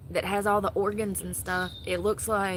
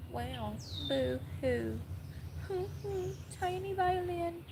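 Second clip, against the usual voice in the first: mock sympathy; 9 semitones higher, 8 dB quieter, slower than usual. Real, not acted. Mocking Target's falling sales.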